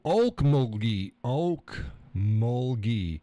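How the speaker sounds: "Okmulgee" said slowly and throaty like clearing phlegm; phlegmy Okmulgee. Shown as a demonstration. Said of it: "when they got a bunch of phlegm".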